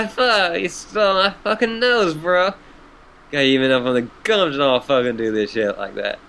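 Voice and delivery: silly clown. Acted. Gamzee voice continues after laugh.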